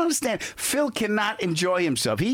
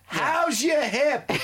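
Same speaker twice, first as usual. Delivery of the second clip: a mock caring nurse, higher and slow; doting carer; 8 semitones higher, slower than usual. Teasing the old man about his hip, mock caring and slow. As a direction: fuss over Pop Pop like a mock nurse.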